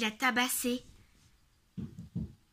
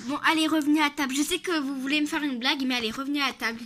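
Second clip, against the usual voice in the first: calling out; 2 semitones higher, 4 dB louder, much faster than usual. Acted. Adult calling kids to table.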